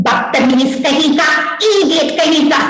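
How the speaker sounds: scolding film-heroine imitation; Asha Parekh. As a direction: tell him off like a Hindi film heroine. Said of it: "Asha Parekh".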